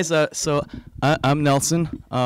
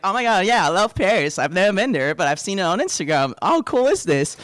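mock gushing, higher and a bit louder; very excited; 4 semitones higher, 4 dB louder than usual. New acquaintance raving about Paris, mock very excited. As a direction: imitate an excited fan of Paris. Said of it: "very excited about Paris".

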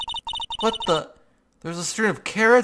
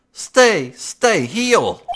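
louder, higher urgent begging; desperate pleading; 5 semitones higher, 6 dB louder, much slower than usual. Acted. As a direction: beg him to hold on. Pleading over friend.

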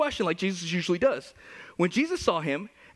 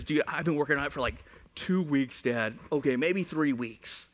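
put-on sheepish teenage son; 7 semitones lower, 3 dB quieter than usual. Son admitting to his dad how long it took, sheepish.

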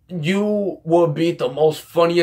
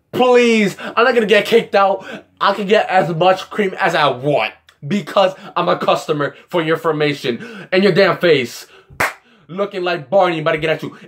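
retold defiant comeback; 2 semitones higher than usual. Customer talking back over extra cream, retold mock defiance. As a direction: replay a cocky protest. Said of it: "I exactly said it like that".

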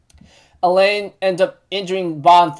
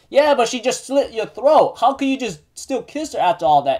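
mildly incredulous, raised pitch; retold flustered objection, pitched up; flustered protest; 5 semitones higher than usual. Jericho questions Bond about kissing Elaine, flustered.

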